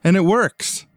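hammed-up next-time announcer; trailer announcer. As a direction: announce it like a TV teaser. Trailer-style teaser.

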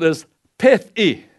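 pethi said carefully as Hebrew, PEH-thee; Hebrew word. Shown as a demonstration. Preacher teaching the congregation the Hebrew word, careful pronunciation. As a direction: sound out pethi like a teacher giving the original word. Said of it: "this first word, simple fool".

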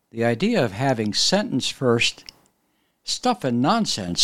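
ordinary talk

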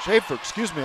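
hiccuping mid-call; interrupted by a hiccup. Real, not acted. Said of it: "got the hiccups now".

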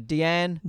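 "Deanne" said as dee-ANN, French style; "Deanne" with an amateur French sound; attempted French pronunciation. Shown as a demonstration. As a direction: have a go at "Deanne" in French, with a dee first syllable. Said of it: "I can't say it in French".

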